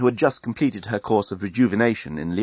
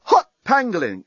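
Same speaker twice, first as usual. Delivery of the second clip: exclaiming; 9 semitones higher, 4 dB louder than usual. Acted. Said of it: "exclaimed the journalist".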